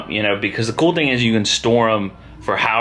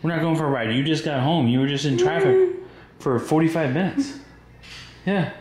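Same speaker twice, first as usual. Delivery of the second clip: gentle refusal; 7 semitones higher than usual. Real, not acted. Gently refusing Abigail another ride.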